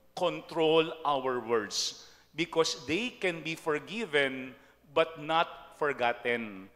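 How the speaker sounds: each word laid down slowly; slow emphatic point. Acted. Priest to parish, slow and emphatic. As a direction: drive the lesson home, word by word.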